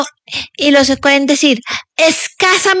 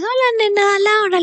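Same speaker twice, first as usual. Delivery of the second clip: imitating his greeting; 5 semitones higher, 4 dB quieter than usual. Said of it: "cuando tú me dices".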